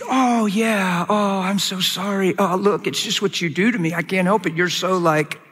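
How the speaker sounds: mock smooth apology; imitating a young man smoothing things over; playing it cool. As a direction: lay on the fake-sincere sweet talk. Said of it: "So I played it cool".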